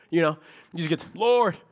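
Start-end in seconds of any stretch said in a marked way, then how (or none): 1.2-1.6 higher, louder cry of Lord; short raised cry; calling out. Retold or imitated. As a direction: call out to God. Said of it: "You just call out on him".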